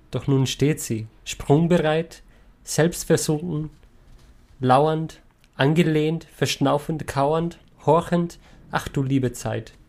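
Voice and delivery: expressive, pausing recital of a poem; reading a poem aloud to the group. Shown as a demonstration. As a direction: read each word as a small picture, with pauses. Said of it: "magst du lesen".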